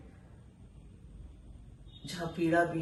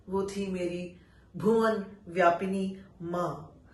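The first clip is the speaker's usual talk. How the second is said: poetry recitation. Acted. Reciting an exile poem to listeners, solemn recital. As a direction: let each line land, then pause.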